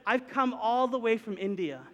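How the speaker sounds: imitating dad's thick Indian accent. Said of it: "put the thicker accent on".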